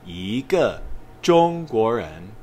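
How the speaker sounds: 一个中国人 with 一 in a rising second tone before 个, said slowly; slow model read, 一 rising as yí; tone change demo. Shown as a demonstration. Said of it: "So we say".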